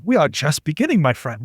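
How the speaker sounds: lightly voiced German friend; German accent. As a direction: put on a mild German accent. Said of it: "my German friend's like".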